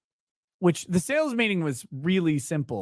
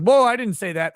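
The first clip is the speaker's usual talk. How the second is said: surprised protest; 6 semitones higher, 5 dB louder than usual. Retold or imitated. Coworker's retorted protest quoted.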